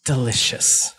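mock pity turning to relish; lightly voiced creature savoring misery; gloating faceless voice. Voice relishes Wiz being abandoned, gloating.

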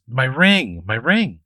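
mildly frantic mock cry; lightly acted panic, imitating a distressed woman.

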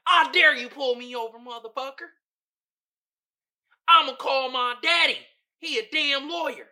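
put-on high, loud taunting white-kid voice; mock entitled white kid. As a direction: sass the cop like a spoiled rich kid. Mocking white friends talking to police.

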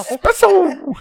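high loud squealed espresso; overacted cartoon squeal; hyped-up anime voice. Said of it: "If you're saying it like that".

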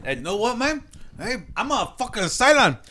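put-on sing-song Chicano stoner accent; Cheech Marin impression. Comic as Olmos joking about his face, exaggerated Chicano accent. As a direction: caricature a Chicano stoner, pitch bobbing along. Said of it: "this worst caricature stereotype".

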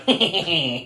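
imitated taunting giggle; teasing snicker. Fritz pestering the monster with a torch, mock taunting giggle. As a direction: snicker like a pesky tormentor. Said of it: "begins fucking with the monster again. Like".

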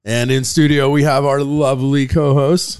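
official announcer-style welcome; podcaster voice. Real, not acted. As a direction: sound like a polished show host. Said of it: "I was trying to be very official in my official podcaster voice".

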